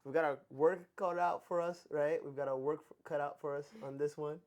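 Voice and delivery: talking through retainers; words slightly muffled by retainers. Real, not acted. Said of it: "it's hard for me to speak sometimes 'cause I have my retainers in".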